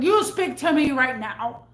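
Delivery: loud retold angry order; heated retort to a customer; pissed demand. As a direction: demand it, fed up and forceful. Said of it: "I was so pissed".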